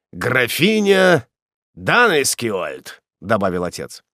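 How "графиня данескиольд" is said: slow wonder. Acted. Father repeats title in awe.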